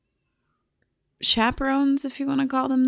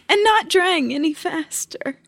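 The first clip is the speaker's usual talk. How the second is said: laugh-crying; 4 semitones higher, 4 dB louder than usual. Real, not acted. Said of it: "I can't stop crying now".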